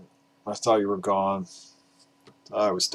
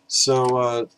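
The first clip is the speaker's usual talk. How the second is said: normal talking voice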